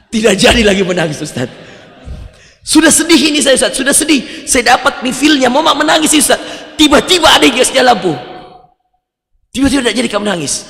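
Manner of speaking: indignant about the lights, fast at the end; aggrieved outburst. Retold or imitated. Worshipper protests to the ustaz about the lamp, loud and indignant.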